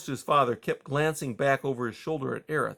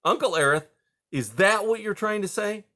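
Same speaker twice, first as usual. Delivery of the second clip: stern; 9 semitones higher, 4 dB louder than usual. A narrator's reading. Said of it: "spoke with some severity".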